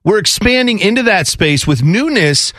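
crypto bro. Retold or imitated. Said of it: "this sounds like every crypto bro".

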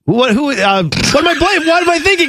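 high-pitched, frantic self-questioning; exasperated. Real, not acted. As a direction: voice climbs as the name won't come. Blanking on an actor's name.

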